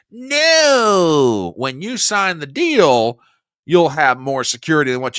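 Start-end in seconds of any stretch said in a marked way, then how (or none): 0.1-1.5 sharp no. Real, not acted. Flat rejection of the quoted demand.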